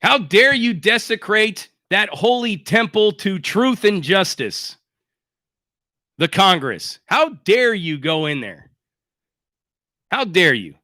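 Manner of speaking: slow, pompous mock outrage at the Capitol break-in; mock indignation. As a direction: play the shocked senator, half-hearted and a bit slow. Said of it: "Try to say that with a straight face".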